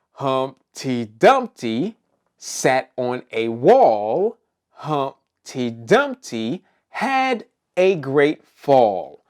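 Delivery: slow, measured rhyme with lilting pitch; nursery rhyme recital. Acted. Host leading children through Humpty Dumpty, slow nursery rhyme recital.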